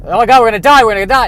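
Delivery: a high, loud, hammed-up panicked yell; panicked scream. A crew member about to crash into the sun, yelling in hammed-up panic.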